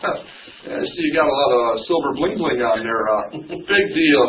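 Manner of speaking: scoffing through laughter, slowly; half-laughing mock dismissal. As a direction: laugh it off like a braggart.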